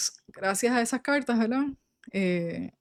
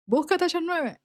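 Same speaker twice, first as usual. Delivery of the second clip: voz de Dios; 7 semitones higher than usual. Retold or imitated. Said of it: "Él me habla mucho así".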